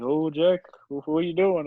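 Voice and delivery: lightly imitated awkward boss; a hint of an awkward fellow, stumbling on his words; Bert. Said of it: "That's how he talks".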